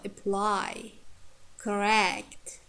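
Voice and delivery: "apply, correct" stressed a-PLY, cor-RECT; weak schwa start, strong ending on "apply" and "correct"; second-syllable stress. Shown as a demonstration. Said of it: "second syllable stressed if it's heavy".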